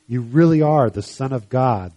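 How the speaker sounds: understated awed exclamation; exclaimed. Acted. Disciples worshipping Jesus in the boat, mildly exclaimed. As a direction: read it as a firm exclamation. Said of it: "they exclaimed".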